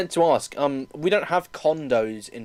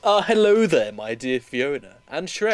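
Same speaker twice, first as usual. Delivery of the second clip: villain greeting; 2 semitones lower, 3 dB louder than usual. Shown as a demonstration. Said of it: "Go on then".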